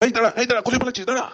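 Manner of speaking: cross, urgent hail; scolding call. Acted. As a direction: order them to stop running. Elder brother calls after fleeing pair.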